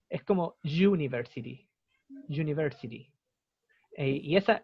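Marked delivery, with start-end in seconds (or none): 0.6-3.1 "university" starting with a firm Spanish "ll" consonant; double-L onset. Shown as a demonstration. Teacher showing students the right onset, "university" with consonant y. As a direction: say "university" as "jooniversity", buzzed y. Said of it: "Es como una doble L".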